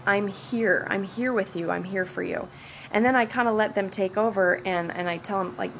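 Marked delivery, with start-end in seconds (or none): 0.1-2.5 reassuring. Shown as a demonstration. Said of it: "I'll have the client say something like".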